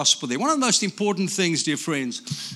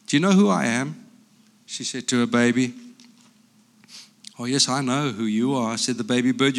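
lively picture-book reading with character voices; reading to children; 3 semitones lower than usual. Acted. Grandpa reading a picture book aloud to grandchildren, lively. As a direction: read it like a bedtime story to grandkids.

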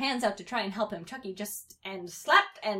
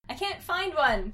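raised, higher, slow complaint; mild acted anger, drawn out; frustrated kid, louder and slower; 8 semitones higher, 5 dB louder, slower than usual. A narrator's reading. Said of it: "said Tommy with anger".

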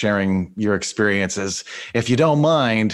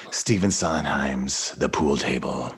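laughing; 8 semitones lower, 5 dB quieter, slower than usual. Real, not acted. Laughing mock musical title.

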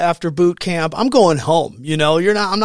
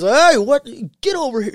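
drill instructor bark; 9 semitones higher, 4 dB louder than usual. Retold or imitated. Senior drill instructor barks at recruit.

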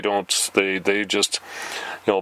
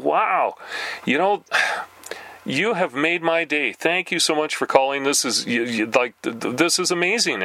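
higher, overdone delight; mock gushing thanks; 4 semitones higher than usual. Thanking the telemarketer, in hammed-up gushing delight. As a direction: gush like the call made your day. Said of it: "I'm trying to be kind of friendly".

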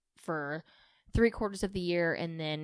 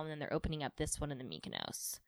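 whispered; 2 semitones lower, 10 dB quieter, faster than usual. Real, not acted. Sudden aside.

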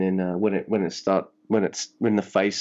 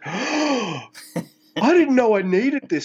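awestruck; 12 semitones higher, much slower than usual. Retold or imitated. Gasping reaction to dream matchup.

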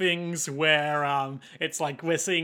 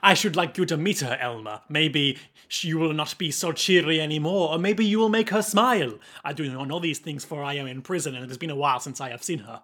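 formal prisoner in put-on French accent; Huey's French accent. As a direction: muse aloud in a mock French accent. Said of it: "speaking with a French accent this whole time".

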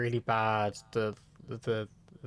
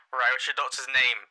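curt receptionist. Retold or imitated. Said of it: "more and more aggressive".

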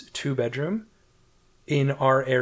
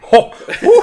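high, loud mock woo; mock cheer; 14 dB louder than usual. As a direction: cheer it like a party guest. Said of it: "and I was like".

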